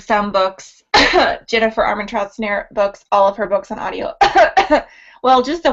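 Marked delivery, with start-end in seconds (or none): 0.9-1.4 loud, deliberate cough; pointed fake cough. Host hinting at her opinion of the books, pointed cough. 4.2-4.8 loud cough as commentary; pointed fake cough. Host hinting that she dislikes the books, pointed cough.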